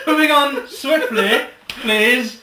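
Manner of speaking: laughing, slowed, half-shouted plea; embarrassed laughing shout. Real, not acted. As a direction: beg to change the subject through laughter. Embarrassed laugh, urging to move on.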